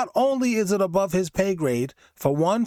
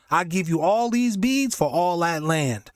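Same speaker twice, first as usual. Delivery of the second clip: scam offer. Retold or imitated. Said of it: "New York is the home of the scam".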